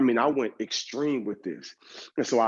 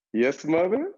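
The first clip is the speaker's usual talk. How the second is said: higher, put-on dutiful reply; mock obedient son; 6 semitones higher, 4 dB louder, slower than usual. Son summoned by angry mom, exaggeratedly dutiful. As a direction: answer up high, overly proper and meek.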